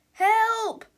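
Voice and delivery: loud, high call for help; hammed-up panic; panicked cry. A narrator's reading. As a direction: cry out in cartoon alarm. Victim calls for help.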